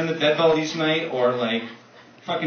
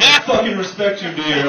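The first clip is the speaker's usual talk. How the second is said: loud, hammed-up solemn respect; mock reverent hunter; 4 semitones higher, 5 dB louder than usual. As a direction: bellow it like a proud hunter.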